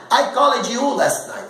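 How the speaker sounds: "called" as two syllables, call-ed; mispronounced ED ending. Retold or imitated. Teacher mimicking how many learners speak, call-ed. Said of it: "quanta gente fala".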